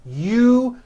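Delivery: "U-ju-al" split into three slow beats; teacher splitting the word up; syllable by syllable. Shown as a demonstration. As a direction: break the word apart. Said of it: "feel for the vibration in the second".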